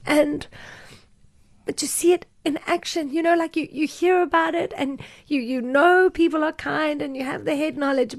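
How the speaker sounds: choking up while speaking; emotional. Real, not acted. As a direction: voice lifted and tight with tears. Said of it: "I'm just getting emotional now".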